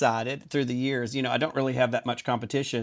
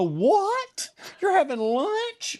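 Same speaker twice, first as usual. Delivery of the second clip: high incredulous squeal of disbelief; shocked disbelief; much slower than usual. Retold or imitated. Twenty-year-old shrieking at the late delivery guy, high and disbelieving. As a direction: shriek it like you can't believe your ears. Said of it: "I go".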